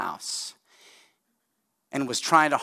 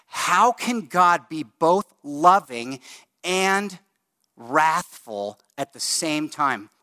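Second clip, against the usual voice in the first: sceptic's challenge; 2 semitones higher, slower than usual. Retold or imitated. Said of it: "what they will say is".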